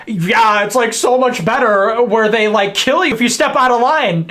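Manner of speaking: retold sarcasm, lightly put on; mildly exaggerated sarcastic agreement. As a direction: imitate her sarcastic reply. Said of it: "She said in a very sarcastic way".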